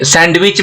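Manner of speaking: सैंडविच with the D voiced before W; sounded D. Shown as a demonstration. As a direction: say सैंडविच as "sand-wich". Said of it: "मैं नहीं बोल रहा हूँ". (सैंडविच का ड साफ़ बोलें)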